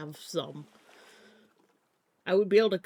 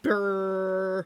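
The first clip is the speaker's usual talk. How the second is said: brain buzz noise; 5 dB louder than usual. Retold or imitated. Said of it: "My brain is just like".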